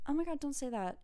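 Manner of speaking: hammed-up high squeal of protest; mock screaming. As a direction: imitate someone shrieking in protest without real volume. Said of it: "Y'all just start screaming about".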